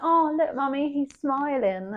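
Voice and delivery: put-on high, slow, delighted little girl; delighted child. A hint of little girl delighting in the dog. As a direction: coo it like a happy child. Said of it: "I used to be like".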